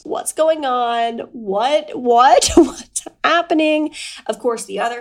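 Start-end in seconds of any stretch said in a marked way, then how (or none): 1.3-3.9 rising, louder what, what; mock bewildered. Grown-ups at a loss, mock baffled and rising. Mimicking confused adults.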